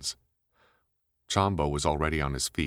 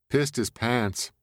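brash woman voice; 9 semitones higher, 3 dB louder, slower than usual. Acted.

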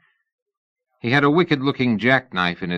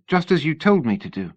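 a worried lady pressing for answers, pitched up; young lady Sybil, anxious; 7 semitones higher than usual. A narrator's reading. Narrator voices Sybil.

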